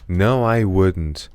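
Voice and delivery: "No, I wouldn't" very slowly, each stressed word weighted; deliberate slow repeat for students; slow sentence stress drill. Shown as a demonstration.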